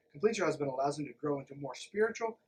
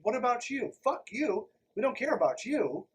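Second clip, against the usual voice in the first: higher, louder sarcastic jabs; mocking outrage; 7 semitones higher, 4 dB louder than usual. Vlogger mocks the book's view of women, higher and louder. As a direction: throw the book's attitude back in its face.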